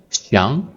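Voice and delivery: 想 rising like a question; second tone. Shown as a demonstration. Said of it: "to the second tone".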